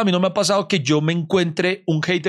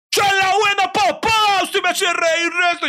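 much higher, loud, overjoyed fan voice; excited fan; 3 dB louder than usual. Retold or imitated. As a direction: burst out like a thrilled stranger meeting his idol. Retold stranger's delighted greeting. (fan emocionado, voz mucho más aguda y fuerte)

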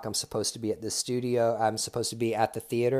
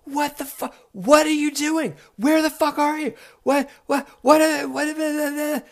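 shrieking mock rage, much higher and louder; irate Todd screaming; 9 dB louder than usual. Todd screaming into voicemail, hammed-up rage. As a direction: sputter in a squealing fury. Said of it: "The third message was the irate messages".

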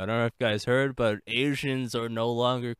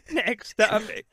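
goat voice; 9 semitones higher than usual. Acted. Goat voice bit, far timbre.

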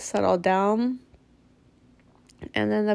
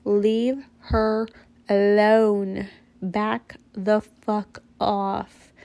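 retold shout, swelling louder on alone, then a slow drawn-out back off; mock angry yell; 3 dB louder, much slower than usual. Mother at her window yelling at the man to leave the woman alone, angry. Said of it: "I'm continuing to scream at him".

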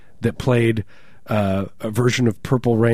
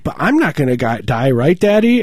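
little daughter asking; 4 semitones higher, 4 dB louder than usual. Retold or imitated. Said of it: "she's like".

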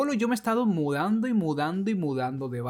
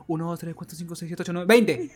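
fast counting. Shown as a demonstration. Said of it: "Y contaba".

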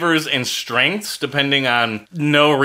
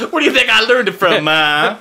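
put-on slightly higher cheeky kid voice; kid talking back; 5 semitones higher, 3 dB louder than usual. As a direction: sass it like a teenager.

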